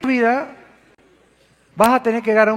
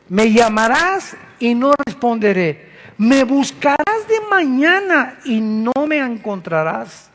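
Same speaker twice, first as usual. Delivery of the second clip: louder, punching llamarás and falling at the end; loud proclamation; 3 dB louder, slower than usual. Acted. Preacher repeating God's warning to the congregation, now loud. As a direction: proclaim it, don't whisper it.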